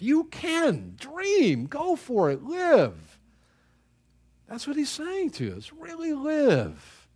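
high, slow, swelling call to really live; soaring urging. Acted. Preacher urging the congregation to live, soaring high and slow. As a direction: lift each word up like a promise.

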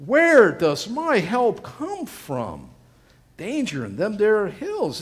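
high, slow, loud plea; afraid. Acted. Preacher voices the frightened psalmist to the congregation, afraid. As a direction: stretch it out like a frightened cry. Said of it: "he's, he's afraid".

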